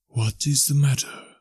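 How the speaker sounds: unhurried otherworldly inquiry; gentle spirit. A narrator's reading. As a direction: ask slowly, lilting upward. Spirit gently questions Scrooge.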